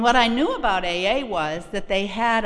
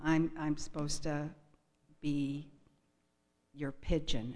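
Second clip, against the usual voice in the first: much softer, hesitant; timid newcomer; 5 semitones lower, 9 dB quieter than usual. Retold or imitated. Newcomer asking the huge man to be her sponsor, timid and soft. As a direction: shrink into it nervously.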